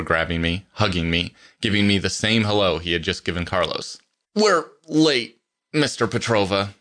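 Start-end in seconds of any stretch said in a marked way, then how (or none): 4.3-6.7 irritated admonishment, pitched up at first. A narrator's reading. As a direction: scold mildly, hitting the first words higher. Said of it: "I admonished, now irritated".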